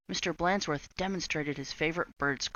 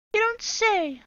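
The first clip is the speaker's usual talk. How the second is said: high, loud mock surprise; sarcastic witch; 6 dB louder, slower than usual. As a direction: drip with sarcasm. Swamp sarcastic.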